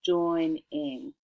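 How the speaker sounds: "Joining" drawn out as join, then ing; root plus ending. Shown as a demonstration. Teacher adding the ending, "Joining" in two slow syllables. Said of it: "add that ending ing".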